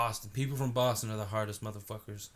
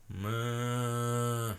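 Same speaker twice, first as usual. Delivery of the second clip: Oregon cow call. Retold or imitated. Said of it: "That's an Oregon cow".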